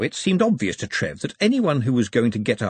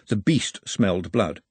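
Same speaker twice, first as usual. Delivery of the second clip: usual speaking voice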